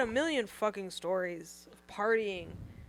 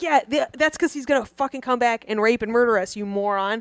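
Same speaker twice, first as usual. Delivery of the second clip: urgent, louder, frantic hiss-free pleading; panicked; 2 semitones higher, 6 dB louder than usual. Retold or imitated. Scared teen urging her friend to flee, louder and frantic. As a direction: yank her out before it's too late.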